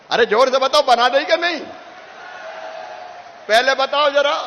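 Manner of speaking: loud rally call to answer; calling out to crowd. Real, not acted. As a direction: rouse the crowd to shout back. Rally crowd, asked to answer loudly.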